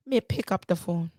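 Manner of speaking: put-on Jamaican patois; Jamaican-style accent. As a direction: retell it in a playful Jamaican accent. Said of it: "catching this accent".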